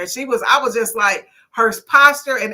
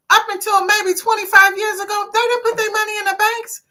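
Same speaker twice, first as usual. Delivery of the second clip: much higher, excited telling; rising with conviction; raised emphasis; 11 semitones higher than usual. Real, not acted.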